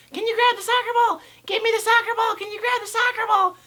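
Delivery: put-on high squeaky kid voice; high bratty kid impression; mocking kids. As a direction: imitate the kids begging for the ball, way up high. Kids demanding the ball.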